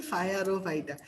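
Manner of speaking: "ফায়ার ও ফাইটা" with a clear English "fire" at the front; deliberately distorted pronunciation. Shown as a demonstration. Tutor restating the trick, "ফায়ার ও ফাইটা" said as fire-o-phyta. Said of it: "ভাই উচ্চারণ করতে বলছি হচ্ছে".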